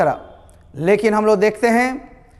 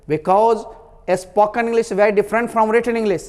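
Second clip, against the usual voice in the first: slow; much slower than usual. Real, not acted. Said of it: "teaching emphasis".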